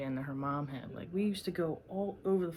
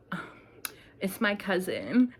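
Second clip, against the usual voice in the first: prank caller; 3 semitones higher, 4 dB louder, slower than usual. Retold or imitated. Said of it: "be like".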